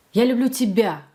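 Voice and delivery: "тебя" accented at the end, then falling; stress on ТЕБЯ. Shown as a demonstration. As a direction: land firmly on "тебя": nobody else. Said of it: "I love you and not anyone else".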